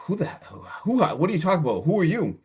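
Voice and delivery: mock a bewildered wife challenging a stranger; startled questioning. Acted wife confronting unknown caller.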